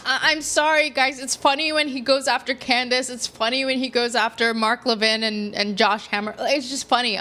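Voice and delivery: chuckling through the words; trying not to laugh while speaking. Real, not acted. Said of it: "I don't mean to laugh".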